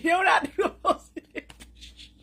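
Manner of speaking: high, squealing laughter; can't stop laughing; laughing to tears. Real, not acted. Mocking the rivals' silence to her viewers, squealing with laughter.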